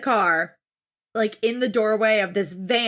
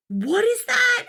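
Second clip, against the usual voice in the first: mock suspicion; 12 semitones higher, slower than usual. Imitating picky guest's suspicious question.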